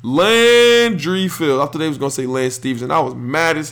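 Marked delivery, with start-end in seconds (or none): 0.0-1.6 draft announcer. Retold or imitated. Host mimics the announcer calling the Knicks pick, formal. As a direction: read the pick out like it's the draft stage. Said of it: "and he said".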